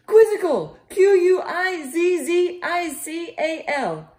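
loud, high shouted spelling; shouting. Acted. Lizzie jolting awake, shouting the spelling. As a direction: yell each letter awake in a panic. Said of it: "She woke up shouting".

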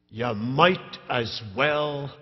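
gruff Scottish. Retold or imitated. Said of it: "in his rather gruff Scottish voice".

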